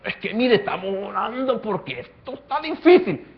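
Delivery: a hint of a worried believer praying; acted fretful prayer. Believer complaining to God, lightly mock anxious. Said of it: "¿cómo sería una oración?".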